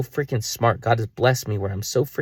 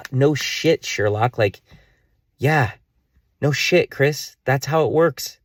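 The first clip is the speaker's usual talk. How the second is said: sarcastic self-mockery; 5 semitones higher, slower than usual. Real, not acted. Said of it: "scolding himself".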